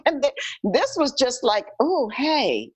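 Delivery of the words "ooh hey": playful, high-pitched "what's up"; mock casual greeting. Acting out how they just said hey, mock casual greeting. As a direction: greet like an overfamiliar pal.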